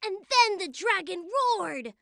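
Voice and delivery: talking through a mouthful of food; words round a bite of dinner; mouth full. Real, not acted. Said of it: "please don't talk with your mouth full".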